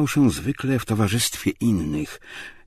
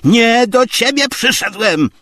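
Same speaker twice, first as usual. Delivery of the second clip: loud, high comeback; angry retort; 10 dB louder than usual. A narrator's reading. Tarantiew rebuffs Zachar, angry retort. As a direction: fling it back indignantly. Visitor snaps back at servant.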